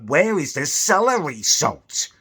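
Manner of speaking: a lightly hammed-up posh pensioner demanding; posh old bloke. Posh old bloke in the Co-op queue demanding of the salesperson, slow and pompous. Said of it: "He's like".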